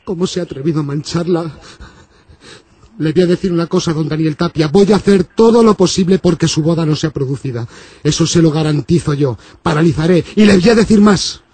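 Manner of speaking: low, threatening priest voice; menacing priest. Acted.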